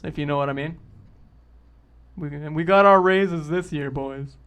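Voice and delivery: loud, smug corporate manager; corporate boss voice. Pretend. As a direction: play a greasy company boss.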